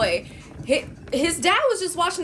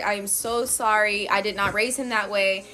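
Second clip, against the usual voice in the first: lightly voiced contrite father, lower; apologetic dad; 5 semitones lower than usual. Dad apologizes for his son, mild contrition. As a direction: imitate an earnest, measured apology. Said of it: "the dad apologizes to me".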